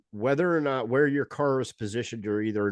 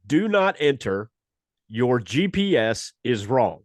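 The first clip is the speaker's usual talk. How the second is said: sign read out; 5 dB louder, slower than usual. Retold or imitated. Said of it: "the sign that says".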